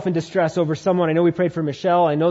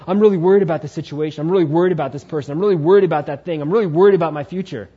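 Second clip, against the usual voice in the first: fast worried rambling; 5 dB louder, faster than usual. Retold or imitated. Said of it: "So if you're going".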